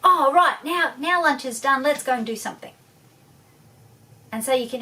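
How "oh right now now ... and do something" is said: bright, much higher and louder upbeat switch; cheerful parent. Retold or imitated. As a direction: reward them with sudden cheer. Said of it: "you go".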